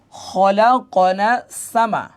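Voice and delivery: very slow, drawn-out syllables; measured Quran-class sounding-out; joined-up spelling. Shown as a demonstration. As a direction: blend the letters into a slow recitation. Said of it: "এখান থেকে মিলান".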